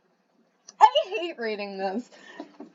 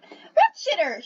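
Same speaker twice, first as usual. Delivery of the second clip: shout; 8 semitones higher, slower than usual. A narrator's reading. Friend cat shouts on finding him. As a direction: call the name out in alarm. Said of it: "shouted Acne".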